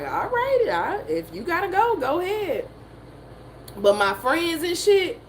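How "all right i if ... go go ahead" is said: imitating mama. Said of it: "She was like".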